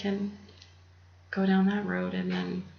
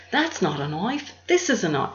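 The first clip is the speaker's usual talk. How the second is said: a louder, hammed-up Australian accent as Crocodile Dundee; a bad Australian impression, swaggering; 2 semitones higher, 4 dB louder than usual. Quoting Crocodile Dundee's knife line in a mock Australian accent. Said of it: "No, that's horrible".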